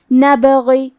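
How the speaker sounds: نبغی with a bouncing, echoing ب; qalqala on ba. Shown as a demonstration. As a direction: recite نبغی letting the ب jolt. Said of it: "با کو ہلاتے ہوئے".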